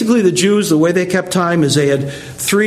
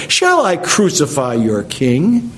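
slow, venomous question; sarcastic disdain. Acted. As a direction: ask it slowly, dripping with disdain. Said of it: "the venom in his words and the sarcasm and the disdain".

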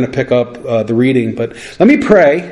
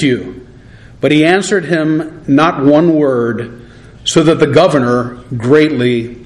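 deliberate reading aloud, slow on key phrases; scripture reading; slower than usual. Real, not acted. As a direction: read the passage out solemnly, pausing between phrases. Reads scripture aloud to congregation.

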